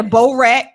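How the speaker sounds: barrette as "bow-RET"; bourette, long "oh" first syllable; Baltimore pronunciation. Shown as a demonstration. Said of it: "in Baltimore, they say".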